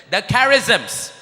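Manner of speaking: The charisms said slowly to repeat; slow teaching call. Shown as a demonstration. Preacher leading the crowd to repeat The charisms slowly. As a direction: spell The charisms out slow for them. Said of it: "Say this with me".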